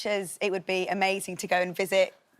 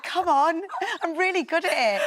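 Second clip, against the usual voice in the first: put-on higher, louder Northern Irish accent; 10 semitones higher, 3 dB louder than usual. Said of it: "That's fantastic. I really like that".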